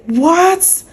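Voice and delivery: sharp high rising what; shocked what. Retold or imitated. Learning her first pay was thirty thousand naira, high shocked what. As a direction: retell the outraged disbelief. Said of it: "I was so angry".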